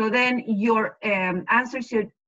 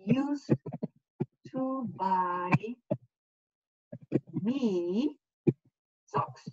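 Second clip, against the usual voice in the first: slow, spaced model answer; 6 dB quieter, much slower than usual. Shown as a demonstration. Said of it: "So my aunt".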